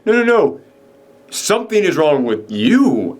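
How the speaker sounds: lightly voiced snake oil salesman turning the blame. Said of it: "snake oil salesman tone".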